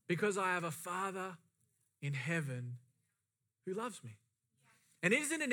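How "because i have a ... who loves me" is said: soft. Acted. Tender soft close.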